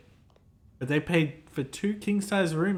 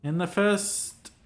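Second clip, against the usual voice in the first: sad tone. Acted. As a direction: let the grief for lost hope seep in gently. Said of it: "continues in a sad tone".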